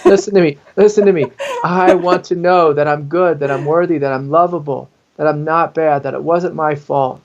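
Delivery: lightly voiced demanding child, insistent; urgent repeated plea, easing toward the end; insistent inner child. Ignored inner child begs for attention, insistent. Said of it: "is what she's saying".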